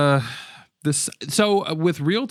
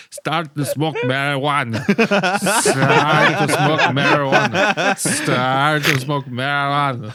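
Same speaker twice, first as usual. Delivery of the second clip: slow, warped reversed-audio voice; backwards speech; 3 dB louder, slower than usual. Retold or imitated. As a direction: mimic a record played backwards. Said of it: "You do a good backwards voice".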